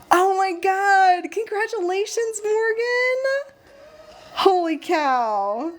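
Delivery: high, drawn-out squeal of delight; excited congratulations. Real, not acted. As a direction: gush at a newly married friend. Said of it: "I keep getting excited".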